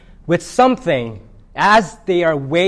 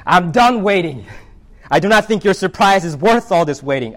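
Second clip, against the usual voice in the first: fed up; 4 semitones higher, 3 dB louder than usual. Acted. Impatient elephant gives up.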